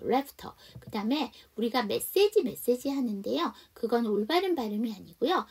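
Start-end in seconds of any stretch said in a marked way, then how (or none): 0.1-0.5 "left" run into a following "a"; linked sound. Shown as a demonstration. Teacher demonstrates linking, "left" joined to "a". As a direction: carry the T of "left" onward. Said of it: "그냥 연음할게요".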